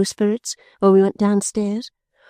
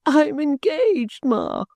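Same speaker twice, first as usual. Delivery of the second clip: much higher, slow sobbing plea; 8 semitones higher, slower than usual. A narrator's reading. Caddy repeats her news to her distracted mother, sobbing. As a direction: cry it out, pleading. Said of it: "sobbed Caddy".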